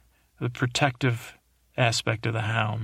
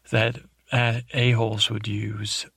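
whispered aside. Real, not acted. Recapping the show to viewers, whispers the crude word. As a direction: drop to a whisper for the rude word.

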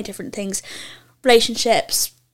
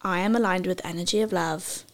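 affirmation call; 3 semitones lower, 5 dB quieter than usual. Shown as a demonstration. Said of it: "I'll repeat it for you in three words".

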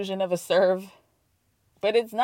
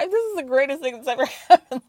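laughing delight; 6 dB louder, faster than usual. Real, not acted. Delighted defence of the show.

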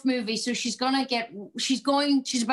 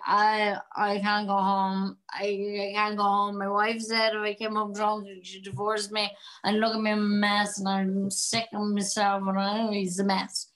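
put-on drunk man; 3 semitones lower than usual. Drunk man at the bar telling a stranger he can't go home, mildly slurred. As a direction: slur it like a sorry drunk at the bar. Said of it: "you play a stunning drunk person".

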